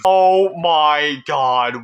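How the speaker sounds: slow, loud, drawn-out disbelief; a long, loud gasp of disbelief; stunned oh my God. Real, not acted. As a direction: let it hang, awestruck and loud. Finally gets into the lobby.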